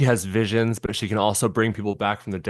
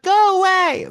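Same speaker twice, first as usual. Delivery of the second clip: very high, loud mock wail; hammed-up dramatic rejection; earnest eighties acting; 5 dB louder, slower than usual. Co-host imitating Tina rejecting an apology, overwrought. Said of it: "just something so earnest, the way".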